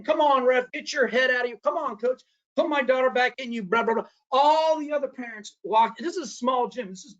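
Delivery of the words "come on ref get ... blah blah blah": mild mock yell, higher-pitched; retold yelling. Dad heckling ref and coach at eighth-grade game, mock yelling. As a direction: imitate a heckling parent at half volume. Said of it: "he starts yelling and cursing".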